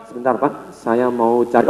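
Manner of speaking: low, soft, unhurried voice; slow talker. Acted. Slow-talking person asking the customer to wait, low, soft and slow. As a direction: play someone who takes their time answering. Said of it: "orangnya ngomongnya lambat".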